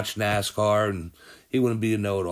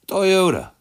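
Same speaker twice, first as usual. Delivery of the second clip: big reveal; 9 semitones higher, 6 dB louder than usual. Real, not acted. Dramatic reveal of the winner.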